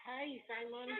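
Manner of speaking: faint, barely audible greeting; real quiet caller voice, hard to hear; very low volume. Real, not acted. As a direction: speak far too softly to be heard. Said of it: "you're sounding very low".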